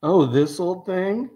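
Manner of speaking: slow evil villain voice. Acted. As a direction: purr it like a smug villain. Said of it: "He says in an evil voice".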